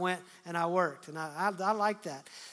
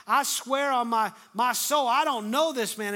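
raised, louder voice, emphatic swearing; acted sworn denial; 4 semitones higher, 6 dB louder than usual. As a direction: deny it forcefully, as if under oath. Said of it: "began to invoke a curse on himself and to swear".

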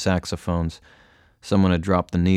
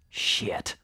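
hushed, voiceless curse; muted frustration; 7 dB quieter than usual. A narrator's reading. Girl missing the vein, muted frustration. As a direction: curse softly under your breath.

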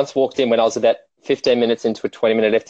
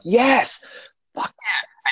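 mock triumph; 12 semitones higher, much slower than usual. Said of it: "I'm like".

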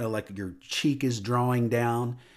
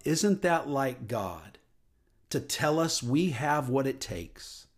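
wondering; slower than usual. Retold or imitated. Speaker marveling to listeners at God's encouragement, slow and tender. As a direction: let the realization land gently. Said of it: "And I thought years later".

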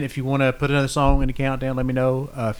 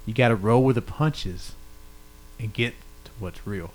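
poem reading; 4 dB quieter than usual. Shown as a demonstration. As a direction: read lyrics like a poem. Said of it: "read it to you in a different way".

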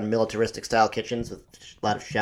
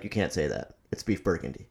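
imitating his dad; 6 semitones lower, 8 dB quieter than usual. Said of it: "he would just be like".

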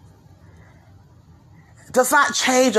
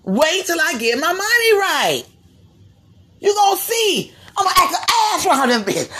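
defiant rapper boast; 3 semitones higher than usual. Retold or imitated.

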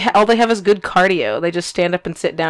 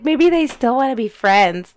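a touch higher and slower, wide-eyed hope; naive hopeful voice; 4 semitones higher, slower than usual. Retold or imitated. Friend mimics her own naive inner voice, a hint of wistful hope. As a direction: lightly voice the naive part of yourself. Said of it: "That's just blindingly naive and positive".

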